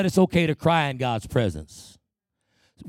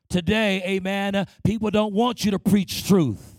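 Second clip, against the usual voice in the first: insistent sermon delivery, pitched up; impassioned preaching; 4 semitones higher than usual. Real, not acted. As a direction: preach it with conviction, punching the key words.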